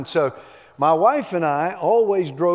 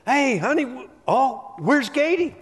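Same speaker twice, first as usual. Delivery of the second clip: high, big mock-preacher call across the garage; booming pretend-preacher question; loud preacher's voice; 9 semitones higher than usual. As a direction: ham it up like a pulpit preacher calling his wife. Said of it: "in a loud preacher's voice".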